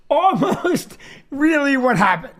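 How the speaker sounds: chuckling mid-phrase on almost; breaking into a laugh partway; laughing through it. Shown as a demonstration. Comic correcting his own story, laughing. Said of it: "Here's what really happened".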